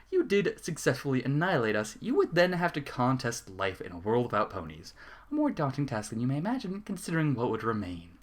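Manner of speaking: usual speaking voice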